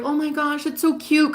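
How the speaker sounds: high, gushing "oh my gosh"; gushing friends. Retold or imitated. Friends fawning over her crush, gushing. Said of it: "all my friends were like".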